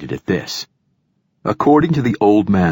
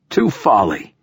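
declaimed toast; giving a toast; 2 semitones higher than usual. A narrator's reading. Old poet opening his toast, declaiming. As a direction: raise a toast. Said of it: "the old poet was giving his toast".

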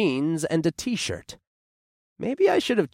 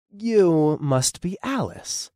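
charming; 5 semitones higher, slower than usual. A narrator's reading. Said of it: "with a winning smile".

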